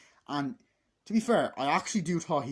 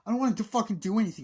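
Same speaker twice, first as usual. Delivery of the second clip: mock angry rant; 10 semitones higher, 8 dB louder, much faster than usual. Mother's boyfriend ranting.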